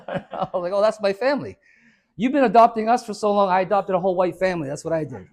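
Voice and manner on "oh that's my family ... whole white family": louder, higher, laughing retort; laughing punchline. Retold or imitated. Speaker answering his neighbors, loud and laughing. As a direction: deliver the joke laughing and loud.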